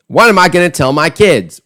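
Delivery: mocking quote of an upset parent. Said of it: "a mocking voice when he delivers that".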